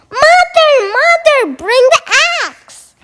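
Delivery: high urgent shout for help. A narrator's reading. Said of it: "Jack shouted as loudly as he can".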